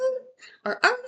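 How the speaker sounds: short, high mock dog yelp; quick spoken imitation of barking; imitated dog bark. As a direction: imitate a dog's bark in brief bursts. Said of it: "you hear the dog go".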